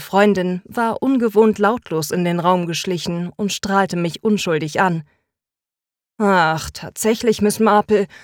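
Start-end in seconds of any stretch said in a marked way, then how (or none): 6.2-8.1 sullen, grumbling, grumpy, slower. Narrator voices the protagonist answering her best friend: grumpy. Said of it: "mürrisch rieb ich mir".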